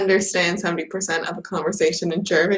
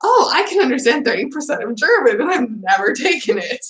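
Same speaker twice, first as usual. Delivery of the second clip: quick, lightly acted delight; high-pitched start, pleased with yourself; all happy; 4 semitones higher than usual. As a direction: re-enact a happy discovery. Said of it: "all happy".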